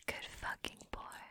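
emphatic but voiceless whisper; whispered praise. Acted. Dominant praising partner, whispered. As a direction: whisper approval close to the ear.

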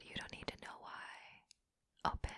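cold belittling whisper. Acted. Belittling partner.

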